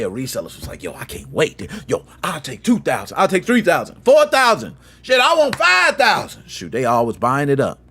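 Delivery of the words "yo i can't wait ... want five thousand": excited. Retold or imitated. Eager resellers placing bigger and bigger orders.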